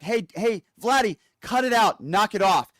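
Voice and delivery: loud, high mock scolding again of Vladdy; mock Trump scolding. Host mocking Trump's weak threat to Putin, loud and high. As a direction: mimic a feeble telling-off.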